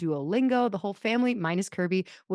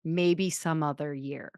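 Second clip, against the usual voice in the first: drawn-out, casual no; slow polite brush-off; much slower than usual. Retold or imitated. Husband gently declining the Tokyo trip, slow. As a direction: let it down slowly, lightly laughing. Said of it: "he should have said".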